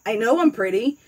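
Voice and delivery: normal talking voice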